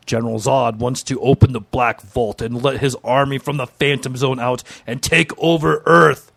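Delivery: mock-epic comic-book narrator; measured narration building to a punchy finish; dramatic synopsis read. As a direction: narrate the villain's plan with relish. Reads dramatic story synopsis.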